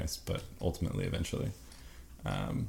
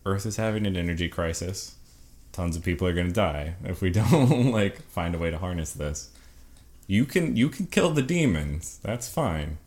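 pragmatic Hayden; 2 semitones higher, 5 dB louder than usual. Retold or imitated. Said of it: "This guy's just like".

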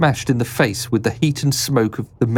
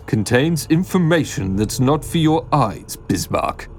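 higher, distinct interrupting voice; voice from behind; 5 semitones higher than usual. A narrator's reading. Newcomer behind them cuts Bismarck off, raised voice. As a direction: cut in with a raised character voice. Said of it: "A voice from behind them".

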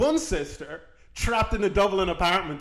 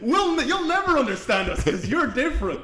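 higher, louder mock yell, slow; hostile locals yelling; 9 semitones higher, 6 dB louder than usual. Irish locals telling the teacher she does not belong, mock yelling. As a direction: bark it like locals driving off an outsider. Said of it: "they're like, Get out!".

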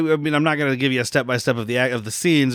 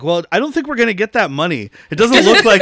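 mock one-liner; 7 semitones higher, 5 dB louder than usual. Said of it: "he's like".

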